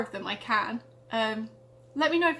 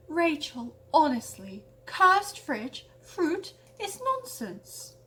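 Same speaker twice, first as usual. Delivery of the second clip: scoffing; 3 semitones higher, much slower than usual. Acted. Matilda scoffs at Rachel.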